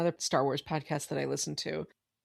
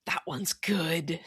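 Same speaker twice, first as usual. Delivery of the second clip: whispered; slower than usual. Real, not acted. Quiet confiding aside.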